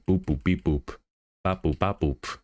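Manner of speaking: short staccato "boop, bop" timing sounds; snappy boops. Shown as a demonstration. Animator sounds out snappy keyframe timing, staccato. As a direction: beat out snappy timing in nonsense syllables. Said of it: "a lot of these are snappy".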